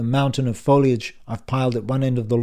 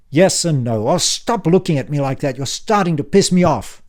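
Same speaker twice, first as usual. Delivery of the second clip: put-on louder, higher, impatient old man; brusque uncle Frank; 5 semitones higher, 7 dB louder than usual. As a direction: bark it like a testy uncle back from the dead. Frank irritated.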